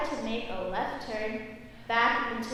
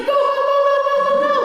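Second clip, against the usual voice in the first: much higher, louder angry yelling of go; mad shouting; 14 semitones higher, 12 dB louder, much faster than usual. Retold or imitated. Instructor yells at the student mid left turn, angry and loud. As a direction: bark go over and over in a rage. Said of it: "he gets super mad at me".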